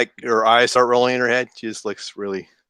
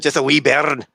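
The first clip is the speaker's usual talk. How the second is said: Scottish accent. Shown as a demonstration. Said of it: "I hear my Scottish accent".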